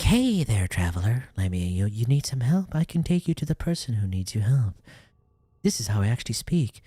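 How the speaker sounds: a hint of a breathless, yappy girl; mocking Yang Yang. Mocking the character's voice acting, lightly done. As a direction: lightly parody her choppy delivery. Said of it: "That's literally what she sounded like".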